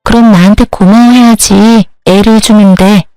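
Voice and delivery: rude bratty sister-in-law. Acted. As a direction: toss each line off as if you're owed thanks. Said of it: "예전에 그 싸가지 없는 년으로 돌아갔더군요".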